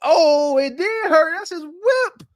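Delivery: lightly voiced upset owner; imitating the man. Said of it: "he said".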